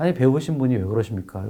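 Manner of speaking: very polite tone.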